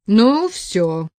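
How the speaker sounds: loud, harsher angry threat; furious shout. A narrator's reading. Thug yelling at the girl before going for her, furious. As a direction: yell it like he's about to charge her. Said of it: "яростно крикнул мордоворот".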